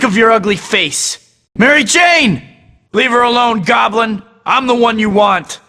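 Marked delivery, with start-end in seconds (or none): 1.6-5.6 raised, urgent challenge; urgent shout. Acted. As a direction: yell to draw him off her. Mary Jane in danger.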